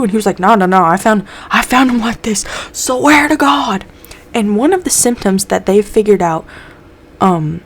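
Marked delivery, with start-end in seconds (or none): 0.4-3.9 panicked denial. Retold or imitated. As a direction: plead your innocence desperately. Mulder denies killing the toxicologist.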